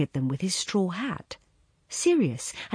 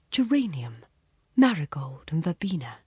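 whispered. Retold or imitated. His voice remembered, whispered names.

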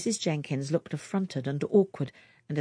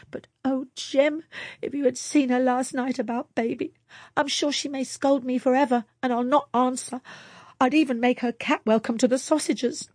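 higher, earnest pleading tone; eager young wife; 8 semitones higher than usual. A narrator's reading. Wife pleading with husband to share sausages, earnest and high. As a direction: plead gently and warmly with him.

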